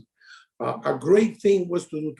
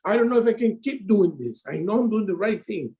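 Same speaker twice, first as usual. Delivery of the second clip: higher, pleading imitation of himself in despair; mock crying to coach; 3 semitones higher than usual. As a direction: replay your own desperate call, pitched up, half-hammed. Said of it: "call Steven crying like".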